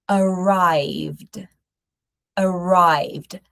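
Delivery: arrived ending in a plain D, no E; arrived as two syllables. Shown as a demonstration. Teacher modelling arrived for students. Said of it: "notice that we don't say arrived".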